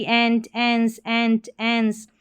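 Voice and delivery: "एंट, एंस" as separate, drawn-out word endings; teacher demonstrating the endings एंट, एंस; ENT sounded out. Shown as a demonstration. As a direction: sound out एंट and एंस slowly, one at a time. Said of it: "फिर यहाँ पर देखिए ईएनटी".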